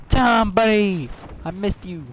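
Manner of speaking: high, loud fake friendly; mock friendly greeting; mock cheerful greeting. Mock greeting of enemy Tom.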